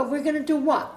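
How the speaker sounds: laughing through the retold question; a laughing, incredulous quote; laughing disbelief. Mother retells her reaction to husband's plan, laughing. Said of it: "I'm laughing 'cause".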